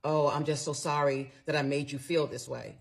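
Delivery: mildly mocking, uncaring sorry; no compassion. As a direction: imitate a hollow apology. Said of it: "didn't really have any compassion in his voice".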